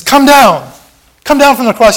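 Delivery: high, loud jeering cry; taunting crowd yell; mocking shout. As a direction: jeer at him like the mob at the cross. Preacher voicing mocking crowd.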